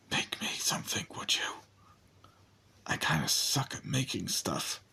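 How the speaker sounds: soft breathy whisper close to the ear. Acted. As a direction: whisper it tenderly, barely voiced. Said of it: "and whispers".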